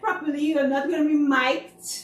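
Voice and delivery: put-on rally nervous kids before the show; coaching the kids. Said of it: "I'm like".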